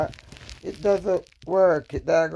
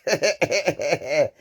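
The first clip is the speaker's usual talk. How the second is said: rapid chuckling laugh; 3 semitones lower than usual. Real, not acted. Wife after quoting her husband, chuckling laugh. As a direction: chuckle in a quick run.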